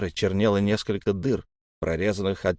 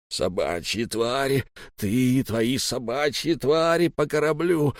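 hissing creature; 3 semitones higher than usual. Acted. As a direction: hiss it with venom. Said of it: "прошипел силач".

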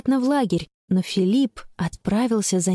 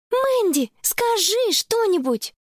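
worried friend; 12 semitones higher, slower than usual. Acted. Worried friend presses on phone.

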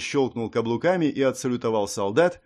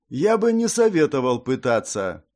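monotone voice; 4 dB louder than usual. Acted. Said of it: "странный, совершенно лишённый интонации голос".

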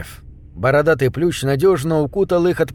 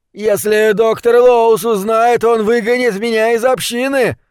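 desperate; 8 semitones higher, 4 dB louder than usual. A narrator's reading. Youth caught out, afraid of being expelled from the community, desperate. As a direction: plead like a naughty boy scared of the belt. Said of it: "В голосе парня сквозило отчаяние".

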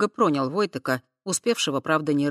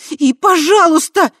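high, loud, slower scolding; angry; 13 semitones higher, 13 dB louder than usual. A narrator's reading. Tai angrily rebuking drunk Voytek. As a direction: scold him sharply. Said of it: "гневно продолжила Тай".

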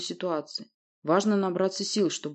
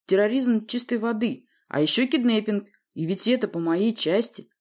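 usual speaking voice

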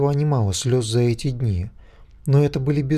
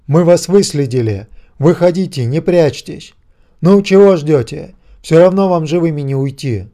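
loud, higher threat shouted across the yard; menacing megaphone shout; 4 semitones higher, 9 dB louder than usual. A narrator's reading. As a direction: yell it out to flush them from hiding. (грозный крик в мегафон)

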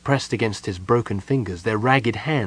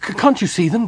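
high, stammering, frantic question; distressed cry; 10 semitones higher, 3 dB louder, faster than usual. A narrator's reading. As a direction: stumble on the first word in alarm. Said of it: "Goldmoon cried".

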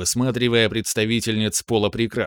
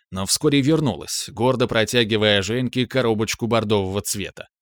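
ordinary delivery, nothing marked

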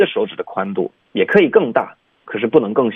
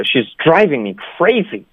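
normal fed-up complaint, stress on DRIVING and CRAZY; mildly angry, venting on the key words; fairly angry; 4 semitones higher than usual. Shown as a demonstration. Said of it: "正常的说法就是比较怒的". (比较生气的正常说法)

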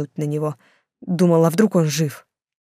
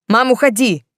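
a raised, higher snap at his mother; snapping; 5 semitones higher, 6 dB louder than usual. A narrator's reading. Son snaps at his mother who walked in, higher and louder. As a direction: bite back at her to get out. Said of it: "тут же огрызнулся Артём".

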